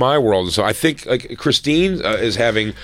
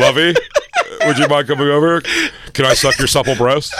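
lecherous Ralph parody. Retold or imitated. Mocking Ralph's come-on.

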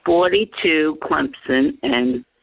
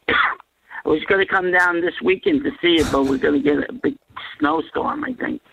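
coughing between words; talking through a cough; coughing fit. Real, not acted. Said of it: "You can't, you can't talk without coughing".

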